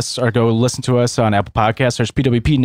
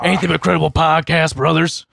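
gruff wrestler hype voice, higher; eighties wrestling promo; 4 semitones higher than usual. Pretend. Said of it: "like at eighties, like, wrestlers".

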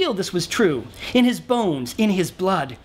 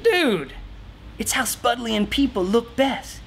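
easygoing, grooving hippie voice, higher in spots; mellow hippie shaman; 4 semitones higher than usual. Acted. Shaman telling the king to relax and dress wild, mellow. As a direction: sell the wild clothes like a chilled-out guru.

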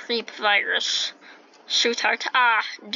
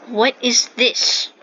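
surprised; 3 semitones higher, 8 dB louder, slower than usual. Real, not acted. Startled by strange sign.

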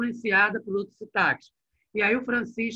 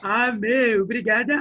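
a carioca mother faking São Paulo slang, a touch louder; mock São Paulo accent; 4 semitones higher, 6 dB louder, slower than usual. Teacher imitating a friend's mother on the phone, mock São Paulo accent. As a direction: put on a casual paulista drawl. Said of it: "a mãe desse meu amigo fala assim mesmo".

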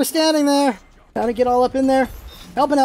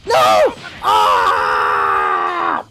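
dismayed yell. Real, not acted. Gamer losing the fight, dismayed yell. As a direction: cry out in defeat.

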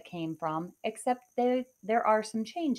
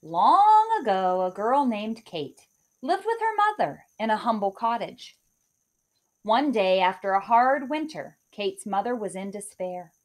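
storybook narration; 4 dB louder than usual. Acted. Teacher reading a fairy tale to her class, animated storytelling. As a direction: open the tale like a storyteller at circle time.

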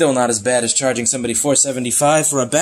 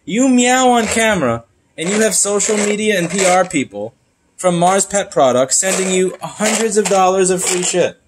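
mock jealous rant; 6 semitones higher than usual.

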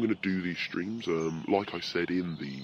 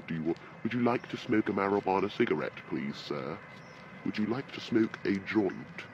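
posh mock translation; 3 semitones higher than usual. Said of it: "it's chav speak for".

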